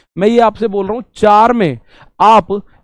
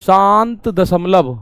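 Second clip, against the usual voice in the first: slow, deliberate term; much slower than usual. Shown as a demonstration. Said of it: "इसको हिंदी में क्या बोलोगे?".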